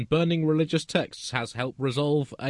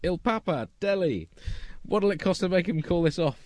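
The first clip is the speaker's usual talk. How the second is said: raised pompous outrage; higher, indignant proclamation; mock outraged threat; 5 semitones higher than usual.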